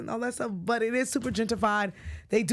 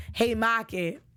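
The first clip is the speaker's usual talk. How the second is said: Boston accent, "Haymarket" said as "Hay-mah-ket" with the r dropped; slower than usual. Shown as a demonstration. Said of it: "let me say it as a Boston person".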